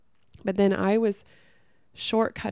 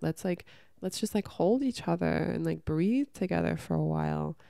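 soothing. Retold or imitated. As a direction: gently invite them to breathe. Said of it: "what about the being like".

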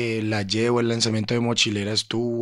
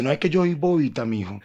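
a light, higher imitation of mom; mom's voice; 4 semitones higher, 4 dB louder than usual. Son imitating his mother joking to him, lightly higher. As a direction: play his mom calling herself silly, a touch higher. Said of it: "Y después dice".

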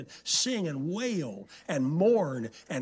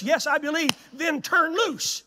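punchline build-up; 10 semitones higher, 6 dB louder than usual. Retold or imitated. Climax of the joke.

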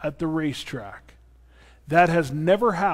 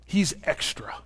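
whispered aside; 4 dB quieter than usual. Real, not acted. Aside whispered about elder.

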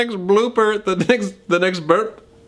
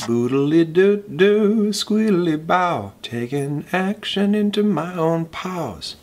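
cartoon voice; slower than usual. Cartoon character voice.

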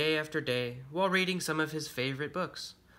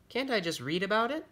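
higher-pitched, pleading question; pleading young bunny; 7 semitones higher than usual. Acted. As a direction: ask it high, like a reluctant child. Bookish son pleads with pirate father.

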